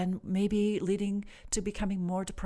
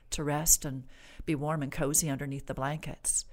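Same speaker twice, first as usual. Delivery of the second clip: calm, restful. Shown as a demonstration. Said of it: "it's much more helpful to say".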